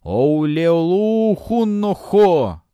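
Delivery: slow, loud, high sinister threat; mustache twirling villain. A narrator's reading. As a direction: menace him like a gloating priest. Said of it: "зловещий смех".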